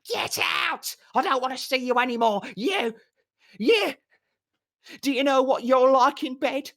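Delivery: high, loud furious scream; furious yelling. Acted. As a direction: hurl it down at him for all to hear. Furious woman yelling from balcony.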